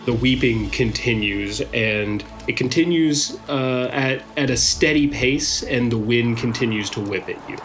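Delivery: steady storyteller setting the scene; scene narration. A narrator's reading. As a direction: narrate the world like a game master. Game master scene narration.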